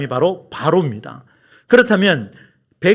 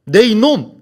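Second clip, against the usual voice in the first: mock-stern rebuke, pitched higher; imagined scolding; 4 semitones higher, 3 dB louder, slower than usual. Moses rebuking Pharaoh for his delay, mock scolding. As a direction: scold him, half in earnest. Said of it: "모세가 꾸짖어야 되죠".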